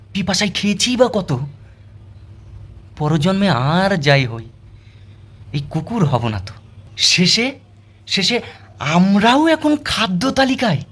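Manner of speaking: dramatic poem of a wronged dog; verse recitation. Acted. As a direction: recite slowly, stretching the line ends. Continues the dog's verse lament.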